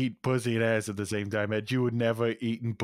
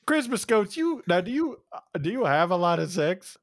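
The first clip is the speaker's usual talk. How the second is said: high, coaxing pet voice; talking to ghosts like to a dog; 6 semitones higher than usual. Pretend. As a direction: sweetly quiz the little ghost.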